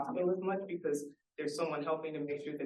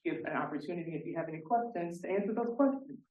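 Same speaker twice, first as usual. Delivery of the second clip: breathless after a long speech; winded, catching breath; 2 semitones higher than usual. Real, not acted. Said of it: "Now I'm out of breath".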